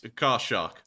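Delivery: saying it through a laugh; chuckling out car shark. Real, not acted. Laughing at the accent.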